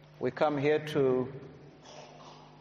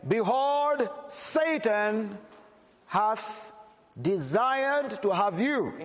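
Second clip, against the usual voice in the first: raised, measured Bible reading before the emphasis; scripture reading; 4 semitones higher, much slower than usual. Shown as a demonstration. Preacher reading the verse to the church, raised and measured. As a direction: read the verse out to the congregation. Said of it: "May I emphasize those words again?".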